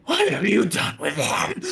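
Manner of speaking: loud, high, slow unearthly shout; double speaking voice. Acted. Monstrous mother confronting Thorn, high double-voiced shout. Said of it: "a double speaking voice just going".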